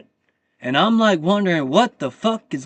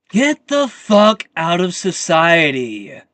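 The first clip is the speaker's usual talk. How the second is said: angry; 6 dB louder, slower than usual. Real, not acted. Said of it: "Sorry if I'm getting loud".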